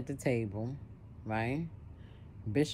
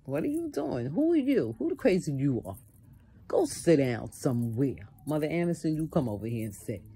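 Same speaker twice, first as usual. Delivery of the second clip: imagined confrontation; 3 semitones higher, 4 dB louder than usual. Retold or imitated. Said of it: "that's how I felt".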